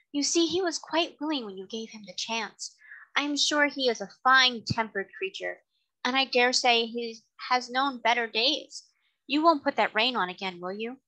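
a refined lady coaxing the carter; kind lady. Acted.

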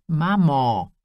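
loud, fed-up cry of mum; daughter's loud exasperated plea; exasperated protest. Acted. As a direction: cut her mother off in protest.

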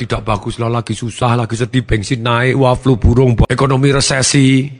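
lightly acted grumbler listing woes; below-average complainer. Trainer imitates a below-average person answering how they are, mild complaining. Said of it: "ada orang yang di bawah rata-rata".

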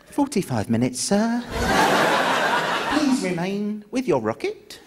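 bored call-centre reply; lightly voiced call-centre operator; breakdown operator. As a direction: tell them to wait, unbothered. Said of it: "you can't call A A Relay".

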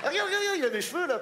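high eager regarde regarde; excited. Acted. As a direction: point it out, thrilled. Excited showing off child.

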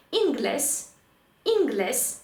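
«інглес» modelled as in-GLES; marked-accent stress. Shown as a demonstration. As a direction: stress the last syllable of «інглес». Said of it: "поставити наголос там, де він стоїть".

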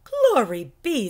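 cheerful teacher admiring the bees; happy. Acted. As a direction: delight in the moment. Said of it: "said the Frizz happily".

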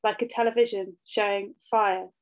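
measured poem recital with deliberate pauses between phrases; poetry reading. Acted. Poet reads their poem about motherhood to an audience, measured poetry reading. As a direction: read each line evenly, letting it land before the next.

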